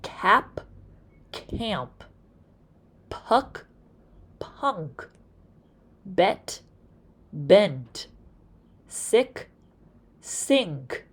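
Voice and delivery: each pair said with and without the nasal, camp, punk, bent, sink, honk humming through the nose; nasal contrast words. Shown as a demonstration. Teacher models word pairs for nasal sounds. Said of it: "Hold your nose gently as you say these words".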